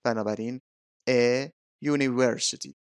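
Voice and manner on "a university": slow "a university", opening on a y sound; article demo. Shown as a demonstration. Teacher showing that university starts with a y sound, slow demonstration. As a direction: model "a university" slowly and distinctly. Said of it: "اولین صدایی که من میشنوم صدای ی هست".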